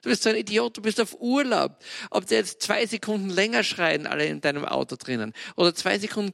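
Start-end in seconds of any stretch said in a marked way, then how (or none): 0.0-1.8 self-scolding. Retold or imitated. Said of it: "Da denk ich mir".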